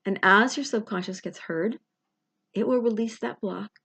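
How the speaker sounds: measured meditation voice with long pauses; unhurried guided visualization, pausing between phrases. Acted. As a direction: gently talk a listener into relaxation, phrase by phrase.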